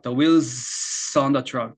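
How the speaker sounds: "wheels" held on its final sound into "on"; words in chunks. Shown as a demonstration. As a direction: stretch the end of "wheels" and link it to "on". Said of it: "이렇게 덩어리를 잡아주시는 거예요".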